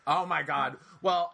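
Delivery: ordinary talk, nothing marked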